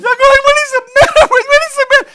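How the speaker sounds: hammed-up high, loud crying squeal; laughing while crying. Speaker imitating himself laughing and crying, squealed wail. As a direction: wail it fast and very high, half laugh, half sob. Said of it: "you are crying, but you're like".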